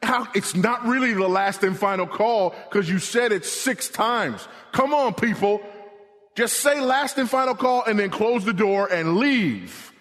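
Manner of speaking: high, fed-up whining at the airline; exasperated mock complaint. Passenger grumbling at the gate about repeated calls, exasperated. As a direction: roll your eyes and complain, come on people. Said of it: "We sit there and we go".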